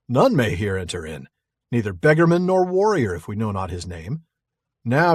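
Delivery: a hint of a stern sentry questioning strangers; lightly voiced guard reading; guard's challenge. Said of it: "take the challenging modern English translation".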